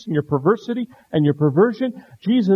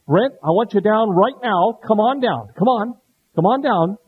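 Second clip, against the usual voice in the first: stern dad order; 3 semitones higher, 4 dB louder than usual. Retold or imitated. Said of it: "That wasn't the way I said it".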